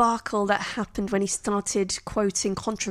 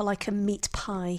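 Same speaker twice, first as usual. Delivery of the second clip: whisper; 7 dB quieter than usual. Real, not acted. Trailing aside about Crowe.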